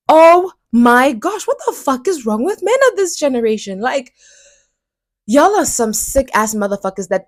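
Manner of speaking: high, loud exclamation then fast rant; fed up and furious with men; exasperated outburst. Real, not acted. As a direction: blow up in exasperation.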